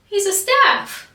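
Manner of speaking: loud, high mock yell; imitated angry correction. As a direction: correct them at a high-pitched shout. Retells instructor's angry correction.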